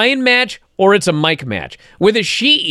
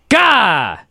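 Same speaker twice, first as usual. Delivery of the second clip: frustrated groan. Real, not acted. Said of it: "I was appalled".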